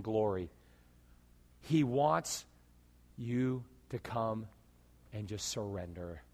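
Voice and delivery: tender altar call. Real, not acted. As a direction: invite them gently to surrender. Softer closing appeal.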